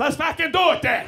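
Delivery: high, loud, hammed-up yell; excited agreement. The driver agreeing to swap spots, excited yell. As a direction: shout it back with matching gusto.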